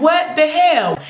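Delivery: high-pitched incredulous outburst; shocked disbelief. Retold or imitated. Viewer reacting to the daddy being shot, shocked. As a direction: replay your stunned reaction, pitched high.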